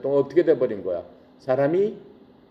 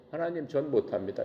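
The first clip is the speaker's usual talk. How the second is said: softer, limp refusal with no strength left; drained and defeated; 8 dB quieter than usual. Acted. Exhausted Moses quietly refuses God, drained. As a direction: sound like a man whose strength has gone. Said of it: "모세가 너무 힘이 빠져가지고".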